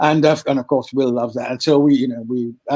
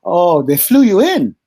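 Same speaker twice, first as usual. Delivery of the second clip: surprised; 3 semitones higher, 6 dB louder than usual. Retold or imitated. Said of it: "He said".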